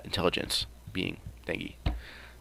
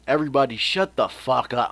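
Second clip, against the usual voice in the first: mock angry shout; 5 semitones higher, 6 dB louder than usual. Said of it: "He doesn't say it like that".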